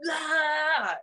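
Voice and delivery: short high mock shout; hammed-up angry yell she didn't do. Host shows what the coach didn't do, mock yell. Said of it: "it wasn't like".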